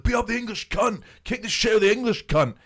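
high, loud imitation of shouting kids; excited kid's battle cry, acted; mock mob yell. Acts kids' mob chant.

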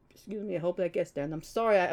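talking through burps; a burp interrupts the words. Real, not acted. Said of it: "I'm freaking burping right now".

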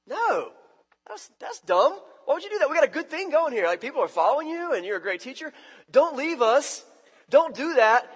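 high, loud, exasperated pleading; outraged protest. Acted. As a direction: protest like a frantic friend. Disciple protesting Jesus' plan.

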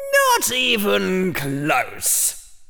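put-on high, slow, dry old hat. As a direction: drawl it like a weary old hat. The hat answers.

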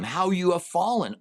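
God jeering at the fallen morning star; mocking taunt. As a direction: sneer the words down at him. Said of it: "So he's mocking him".

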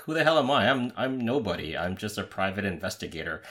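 lightly imitated Russian New Yorker, indignant; a hint of Russian New York accent in protest. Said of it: "in his best Russian New Yorker accent".

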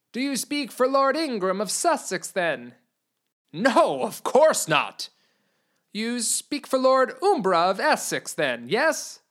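wheedling herald; weaselly envoy. Acted. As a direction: fish for an answer slyly. Envoy questioning the knight.

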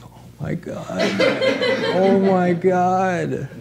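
breathless laughing oh my God, slow and high; laughing delight. Real, not acted. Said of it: "I'm like".

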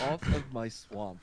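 slow, drawn-out ogre line. Pretend. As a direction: drag the words out like a lazy ogre.

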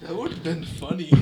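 quiet. Shown as a demonstration. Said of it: "why'd you say it like that".

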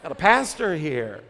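chuckling through the words; laughing aside. Retold or imitated. Flustered churchgoer to friends, laughing. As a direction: laugh it off, a bit embarrassed. Flustered person spots a pastor.

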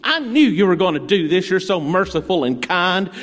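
mock livid whine; livid Jonah. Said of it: "I can imagine him stomping his feet".

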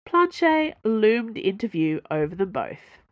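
ordinary delivery, nothing marked

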